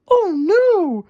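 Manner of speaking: high, tearful oh no; high, crying Wendy in dismay. Acted. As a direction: gasp it out in dismay. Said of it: "she cried".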